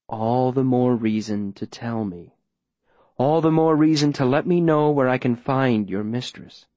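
measured, coaxing man in control; smooth, persuasive mayor. Acted. Mayor pressing Viola for a location, smooth persuasion. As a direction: coax deliberately, slowing for effect.

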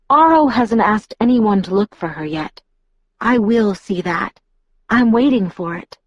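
lightly voiced Alice, sure of herself; a hint of a confident young seer; Alice, firm. Narrator voices Alice in dialogue.

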